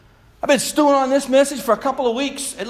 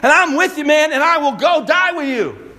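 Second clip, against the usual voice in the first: preacher hamming up Peter's bragging; lightly voiced cocky Peter promising to die with Jesus; mock-brave boast; 4 semitones higher than usual. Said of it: "who so bravely said".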